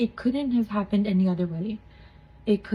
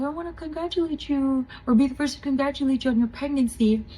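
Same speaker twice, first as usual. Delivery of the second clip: lightly voiced nurse, higher pitch; retold congratulations, a little raised; quick, higher take on a nurse congratulating; 5 semitones higher, 4 dB quieter, faster than usual. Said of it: "and she's like".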